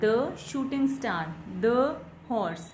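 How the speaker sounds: the as a drawn "thuh" before shooting and horse; weak THE. Shown as a demonstration. Teacher listing consonant-sound examples, slow thuh. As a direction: say each the with a schwa, thuh. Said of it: "the is pronounced as the".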